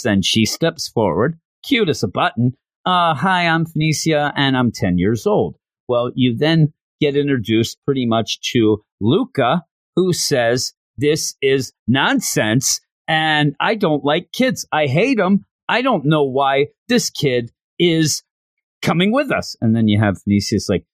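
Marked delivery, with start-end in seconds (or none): 2.8-5.6 lightly voiced shy little girl, higher; a hint of a small girl saying hello. Ten-year-old girl introduces herself to the class, lightly voiced little girl. 11.0-19.5 slow, higher-pitched grumbling complaint; lightly acted disgruntled student; mock indignant. Student objects to a kid coming along, mock indignant. Luca rejects the child.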